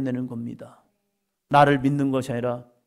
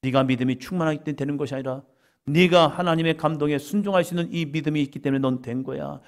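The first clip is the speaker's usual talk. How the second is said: ordinary talk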